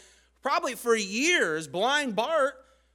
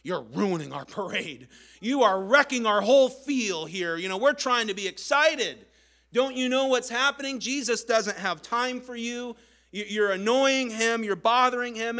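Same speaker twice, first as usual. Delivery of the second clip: louder, scolding, exasperated rebuke; mock the annoyed parade-goers; irritated crowd; 3 semitones higher, 4 dB louder than usual. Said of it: "just look at him like".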